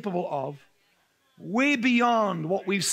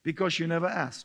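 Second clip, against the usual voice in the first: calm casual; 2 semitones lower than usual. Retold or imitated. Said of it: "in his calm, casual, annoying way".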